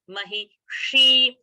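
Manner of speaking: "Mahishi" drawn out slowly, last vowel held long; slow teaching demo of "Mahishi" with a retroflex sh; retroflex long shi. Shown as a demonstration. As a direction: curl the tongue for the sh in "Mahishi". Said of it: "See the difference between sh".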